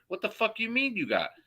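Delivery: high-pitched, disbelieving outburst; incredulous outrage. Retold or imitated. Quoting what he said back to the mayor, high and outraged. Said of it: "I'm like".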